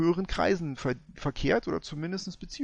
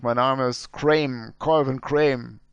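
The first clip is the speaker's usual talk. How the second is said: Colvin Crane; 4 dB louder than usual. Acted.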